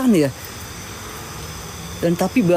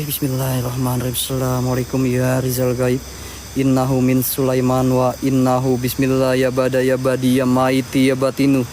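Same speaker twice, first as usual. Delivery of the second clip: summoning incantation; 3 semitones lower than usual. Acted. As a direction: intone it like a ritual.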